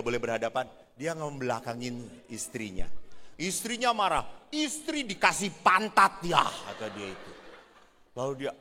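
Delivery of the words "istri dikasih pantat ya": louder, indignant wife; mock offended wife. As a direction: throw the complaint at him. Wife angry at husband. (istri tersinggung, suara keras)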